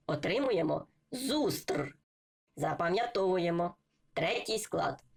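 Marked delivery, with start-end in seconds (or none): 1.1-2.0 slow, stretched "зустр"; syllable by syllable. Shown as a demonstration. Teacher joining syllables for learners, slowly sounded out. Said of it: "як ми читали по складах".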